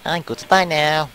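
put-on Russian accent. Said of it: "talk in that fucking Adventure Time Russian accent".

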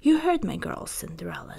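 wicked stepmother. Acted. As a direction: command like a cold stepmother. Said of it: "said the stepmother".

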